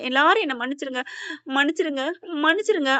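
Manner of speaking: mildly tearful pleading; acted dying plea. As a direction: imitate a dying woman begging pardon. Dying woman begs forgiveness.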